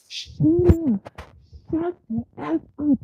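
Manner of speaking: high-pitched, imitated outburst; mock angry mom. Retelling the mom cussing Wendy out, mock angry. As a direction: act out a mother cussing someone out. Retold mom cursing her daughter.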